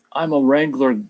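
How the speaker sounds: lightly attempted Australian accent. Shown as a demonstration. Streamer trying out an accent before giving up, light Australian accent. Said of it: "I can try it".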